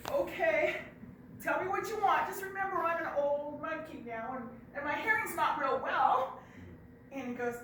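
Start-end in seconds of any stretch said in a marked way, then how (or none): 0.1-6.4 put-on high, loud old monkey croak. Old monkey answering Bear, high and loud. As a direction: play the old hard-of-hearing monkey.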